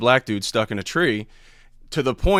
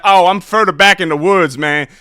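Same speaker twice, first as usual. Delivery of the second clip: much higher, loud, cheerful stranger voice; prank caller Dewan; 7 semitones higher, 9 dB louder than usual. Retold or imitated. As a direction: boast the absurd details straight-faced. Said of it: "I'm like".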